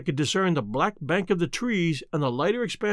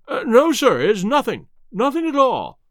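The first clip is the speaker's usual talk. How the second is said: higher, louder, hurried denial; alarmed interruption; 6 semitones higher, 6 dB louder than usual. A narrator's reading. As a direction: cut in fast to deny it. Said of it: "the butler broke in".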